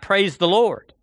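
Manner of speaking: mild shout. Acted. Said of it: "stand on her front porch and shout".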